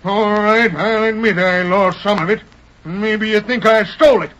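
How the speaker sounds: defiant rising outburst; angry. Acted. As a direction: build from sullen to shouted defiance. Cornered villain erupts in court.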